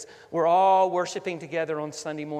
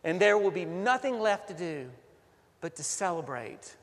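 prayer. Acted. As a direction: lead the congregation in earnest prayer. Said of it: "Let us pray".

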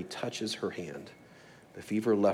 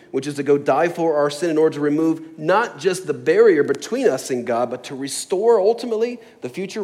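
loud, driving sermon delivery; emphatic preaching; 4 semitones higher, 7 dB louder than usual. Real, not acted. Preacher telling what Jesus would ultimately do, emphatic preaching. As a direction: preach it with force, easing off at the end.

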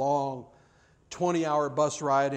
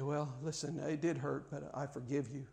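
quiet grudging reply; 2 semitones lower, 11 dB quieter than usual. Retold or imitated. Reluctant forgiver, quiet reply.

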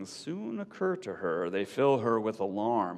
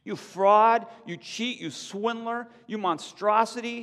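much higher furious insults; crying out; 12 semitones higher, 5 dB louder than usual. A narrator's reading. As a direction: hurl each insult. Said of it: "she cried".

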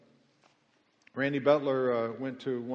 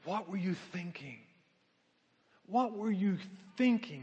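mock scream; 5 semitones higher than usual. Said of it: "What was the scream".

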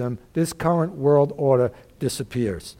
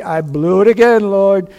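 louder, owning up to God; acted confession; 3 semitones higher, 6 dB louder than usual. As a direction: admit failure to the Lord, voice lifted. Acting a believer confessing to God.

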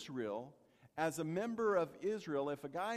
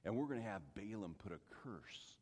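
scheming king; 11 semitones lower, 8 dB quieter, faster than usual. Retold or imitated. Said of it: "the king of Moab said".

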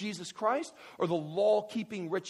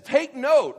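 high, loud command as Paul; imitated apostle, punchy and forceful; fired up; 10 semitones higher, 14 dB louder than usual. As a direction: act out Paul demanding attention. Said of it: "he's getting so fired up".

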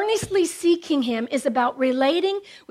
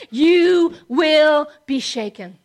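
warning shout; 3 dB louder, slower than usual. Real, not acted. Preacher warns of false security.

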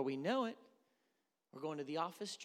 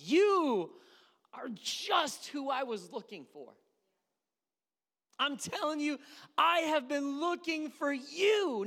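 much higher, louder, slow sweet-talking voice; seductive flatterer; 13 semitones higher, 11 dB louder, slower than usual. Retold or imitated. Preacher imitating a seducer flattering someone, high and slow. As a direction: lay it on thick like a seducer. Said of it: "someone comes along and says".

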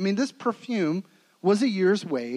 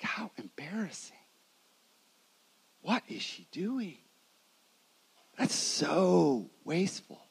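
hushed, gossiping murmur of the dinner guests; mock whisper; 7 dB quieter than usual. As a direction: mutter it like a scandalized guest. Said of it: "and whispering things like".

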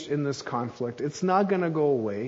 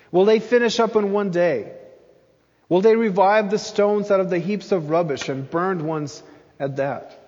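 mocking; 3 semitones higher, 4 dB louder than usual. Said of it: "He's mocking them".

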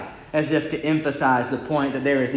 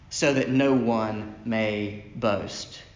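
lower, softer and slow; hushed and solemn; 7 semitones lower, 6 dB quieter, much slower than usual. Acted. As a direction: drop it to a near hush. Closing a point quietly.

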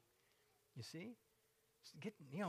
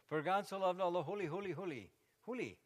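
mock misquote; 5 dB louder than usual. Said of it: "It doesn't say".

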